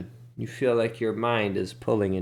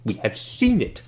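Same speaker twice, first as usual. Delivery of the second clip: higher and louder, protesting; insistent Ben Dubas; 5 semitones higher, 7 dB louder than usual. Acted. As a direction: insist the beast is real. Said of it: "And Ben Dubas says".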